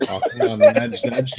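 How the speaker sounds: teasing Python voice. Acted. Player doing a Monty Python "nudge nudge" bit.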